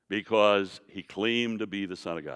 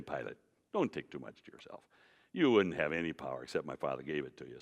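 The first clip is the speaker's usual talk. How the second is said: softer, lower, patronising; condescending Jesus; 7 semitones lower, 6 dB quieter than usual. Retold or imitated. Preacher imitating a pulling-rank reading of Jesus to Pilate. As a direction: pat him on the head with words. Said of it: "patting Pilate in the head and saying".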